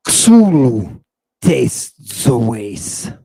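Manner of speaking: very slow, stretched syllables; drawn-out recitation. Shown as a demonstration. Teacher reciting what the overcomer will eat, drawn out. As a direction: savor each word, with pauses between them. Recites the foreign phrase with relish.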